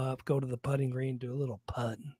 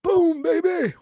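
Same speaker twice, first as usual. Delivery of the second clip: high, loud triumphant whoop; excited shout; 10 dB louder, slower than usual. Real, not acted. Excited outburst about golf week.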